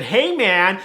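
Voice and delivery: lightly put-on American team manager; American accent. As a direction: greet with a mock American accent. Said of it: "'cause he's American".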